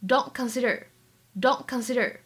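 "Don't consider" with the T of "Don't" held back; unreleased T. Shown as a demonstration. Teacher shows learners the lost plosive, "Don't consider" with unreleased T. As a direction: run "Don't" into "consider" without releasing the T. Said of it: "可以做一个完全失去爆破".

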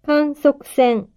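slow, careful dictation; each word said slowly and clearly; dictating. Shown as a demonstration. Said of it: "書き取ってください".

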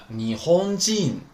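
你轰进 slow and level, falling at the end; standard pronunciation. Shown as a demonstration. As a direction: model 你轰进 slowly as one sustained word. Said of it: "它的标准读音是". (你轰进标准读音，放慢读，结尾降调)

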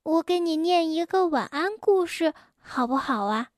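柔声小心地问; 想和好地轻声问; 轻轻地问. Acted. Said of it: "蹦蹦轻轻地问". (蹦蹦想和好轻声地问)

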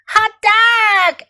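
high, excited cheer; excited kids' yell. A narrator's reading. Kids celebrate being left with Fox, excited yell. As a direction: cheer like children let loose. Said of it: "yelled the Ling kids".

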